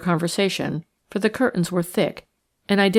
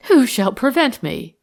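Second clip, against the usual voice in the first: slow, higher, mocking challenge; sarcastic retort; 6 semitones higher, 4 dB louder than usual. A narrator's reading. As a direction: toss it back with slow sarcasm. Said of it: "retorted Lady Molly with a low, sarcastic laugh".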